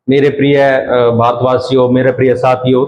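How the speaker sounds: a hint of a public speaker addressing the crowd; stage address. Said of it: "जैसे कोई मंच पे खड़ा है". (मंच से संबोधन करते वक्ता की हल्की नकल)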